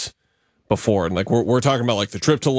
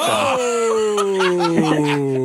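mock-wounded oh; 8 semitones higher than usual. Real, not acted. Reacting to friend snub joke.

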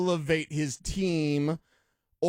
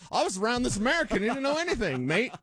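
jokey higher, fast mock Australian accent; 6 semitones higher, faster than usual. Mocking a London reporter in a hammed-up Australian accent. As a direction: put on a cheeky Aussie accent. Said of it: "I think that was Australian".

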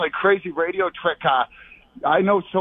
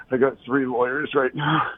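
out of breath; 3 semitones lower than usual. Real, not acted. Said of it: "why do you sound like you're out of breath".

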